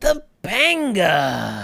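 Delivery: high, loud, drawn-out call. Showing a vague Cory Matthews voice from Boy Meets World. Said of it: "in a vaguely Corey Matthews sounding voice".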